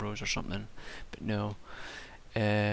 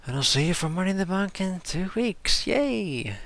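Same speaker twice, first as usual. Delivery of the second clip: high, loud, hammed-up cheerful sign-off; mock cheer; 9 semitones higher, 6 dB louder than usual. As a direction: oversell the goodbye sarcastically.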